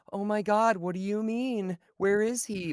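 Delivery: high, fake worried voice; fake panic. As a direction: play the frantic girlfriend act. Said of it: "it's like".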